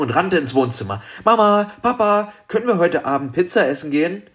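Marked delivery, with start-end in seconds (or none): 1.2-4.2 put-on high, eager child calling parents; aufgeregtes Rufen. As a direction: pipe up eagerly, then a quick request. Girl runs in calling parents. (hoch und eifrig gebettelt)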